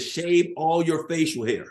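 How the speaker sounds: loud, high, slow mock order; imitated military order, hitting every word; instructor's command. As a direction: stretch out the command like a drill instructor.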